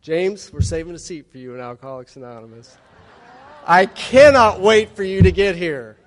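an overjoyed sober mom welcoming her son, a touch hammed-up; eager mom. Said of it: "Here's what she said to me".

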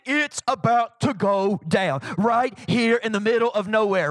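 eager hype, mildly excited; excited God the Father. Acted. God hyping the desert launch to Jesus, excited. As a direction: relish the news that's about to break. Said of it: "the Father getting so excited".

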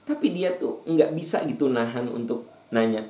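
ordinary delivery

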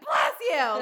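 "Bless you!" snapped out in the rhythm of a sneeze; sneeze-cadence bless you. Retold or imitated. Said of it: "just the same cadence and everything".

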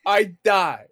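breathless high laughing talk; barely getting words out through laughter; real laughter, voice up high; laughing hard. Real, not acted. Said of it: "die every time I fucking hear this".

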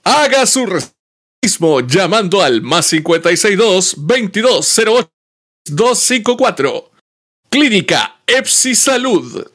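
infomercial voice. Pretend. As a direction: repeat the ad like a TV pitchman. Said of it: "dilo igual".

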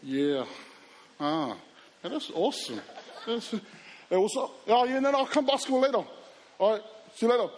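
casual bro voice, playing it cool; a light impression of a teen playing it cool; playing it cool on the phone. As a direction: act unbothered on the phone. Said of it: "and I'm like this".

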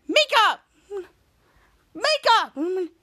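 high, loud call of a name. Retold or imitated. Ray calls Mika through the door, loud and high.

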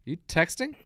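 comic calling out a texting audience member, loud and high; mock heckler callout. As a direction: bark at the guy in the V-neck. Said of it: "he has the one that was like".

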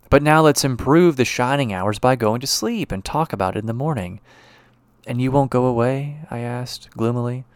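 reads the passage with a lightly voiced doctor husband; story reading. Expressive reading aloud. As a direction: lecturer reading the novella aloud to the class, a lightly acted story voice.

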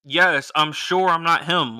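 fed-up reply. Retold or imitated. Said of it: "you sure you not Reggie?".

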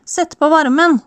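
high whiny mock nag; a high, whining demand from the passenger seat; nagging girl. The speaker mimics a girl in a cold car, high whiny nag. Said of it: "begynte å mase".

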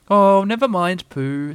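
high, drawn-out consoling coo; comfortingly. A narrator's reading. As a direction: console a friend in a little high voice. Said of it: "said Piglet comfortingly".

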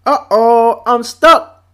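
lightly voiced dismayed bear, a bit high and loud; mild cartoon alarm; imitated Winnie the Pooh. Bear wedged in rabbit's doorway, mock dismay. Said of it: "and he's like".

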